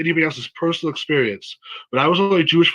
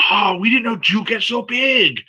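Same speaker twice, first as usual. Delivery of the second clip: higher, exclaiming mock Asian accent; bad Asian accent; 6 semitones higher than usual. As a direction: marvel in a put-on Asian accent. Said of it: "I'm gonna do a bad Asian accent".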